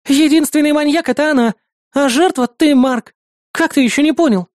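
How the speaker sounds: high, sarcastic nosy neighbour; mocking neighbour. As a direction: sneer at the princess. Neighbour warning Марк.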